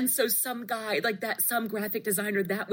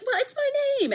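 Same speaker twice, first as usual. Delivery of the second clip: retold retort; faster than usual. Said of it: "finally I was like".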